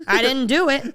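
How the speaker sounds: high mock protest; defensive busboy. Busboy denying blame to the waiter, imitated defensively. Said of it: "the busboy goes".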